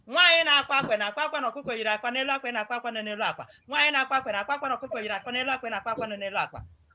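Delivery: very fast tongue-twister delivery. Demonstrating a tongue-twister drill that must be said without mistakes; very fast tongue twister. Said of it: "You have to say it very fast".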